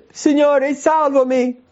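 high, loud, desperate cry; sinking Peter cries out to the Lord. Acted. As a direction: shout it like a man going under. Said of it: "E grida".

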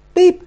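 short, high beep; piping electronic chirp; phone beep imitation. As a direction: mimic a message alert. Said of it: "il telefono fa".

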